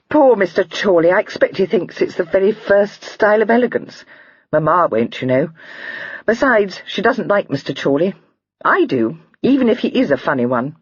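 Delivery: put-on high, light girlish voice, amused; a lively young girl laughing at a joke; young lady Lydia. A narrator's reading. Lydia's voice read aloud.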